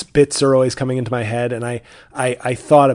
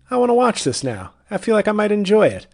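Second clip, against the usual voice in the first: excited; 9 semitones higher, 4 dB louder than usual. Retold or imitated. Quoting own reaction.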